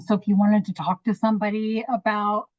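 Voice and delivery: talking through a yawn. Real, not acted. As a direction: speak mid-yawn.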